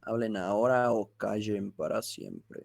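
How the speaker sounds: hammy mock-ominous villain line; mustache twirling villain. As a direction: play a cartoon villain daring them. Mock-ominous end of lecture.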